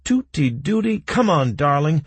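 high, loud urging; excited shouted cue, pitch way up; calling out. A narrator's reading. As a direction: call out to spur someone on. Consultant calling out the launch order.

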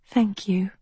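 faint, whispered thanks; gasping softly. A narrator's reading. Dying girl thanks the one who freed her, faint whisper. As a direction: whisper it with failing breath. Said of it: "Gasping softly, like a fish on land".

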